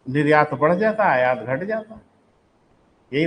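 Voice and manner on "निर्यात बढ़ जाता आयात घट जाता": imitating students parroting a memorised line; punchy, parroted textbook phrases; mock rote recital. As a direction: reel it off like crammed notes. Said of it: "रट के तो खा लिए गए हैं".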